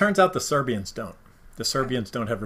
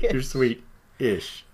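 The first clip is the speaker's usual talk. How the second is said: teasing; much slower than usual. Pretend. Teasing pun on sweet.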